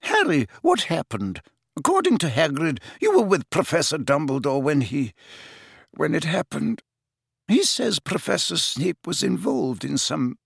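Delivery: urgent, high questioning; agitated McGonagall. Acted. Narrator voices agitated McGonagall.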